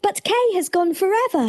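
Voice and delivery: weeping Gerda. Acted. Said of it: "she wept".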